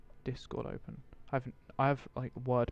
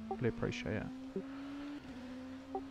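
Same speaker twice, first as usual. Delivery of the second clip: sarcastic; 11 semitones higher, 11 dB quieter, much slower than usual. Real, not acted. Complaining no caution was called.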